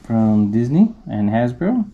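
speaking through full face helmet; muffled inside helmet. Real, not acted. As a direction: voice behind closed visor. Seen 4: Full helmet covers head and mouth throughout; refs show it held, not worn.

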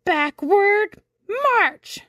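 high, drawn-out parade order; shouted drill command. A narrator's reading. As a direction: bellow it slowly like a drill officer. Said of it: "shouted the horseshoe crab".

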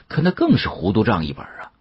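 plain reading voice

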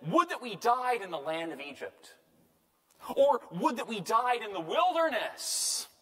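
hammed-up wailing lament; mock despairing crowd; crying out, complaining. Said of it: "all the congregation raised a loud cry".

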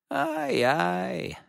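high-pitched, drawn-out mock chuckle; soft mocking laugh. A narrator's reading. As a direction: tease with a high, half-laughed exclamation. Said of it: "zaśmiał się z cicha".

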